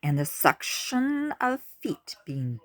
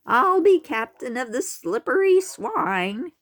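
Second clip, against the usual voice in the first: high, loud eager claim; calling out; 9 semitones higher, 6 dB louder than usual. A narrator's reading. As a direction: call it out to the herd. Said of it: "called out another pig".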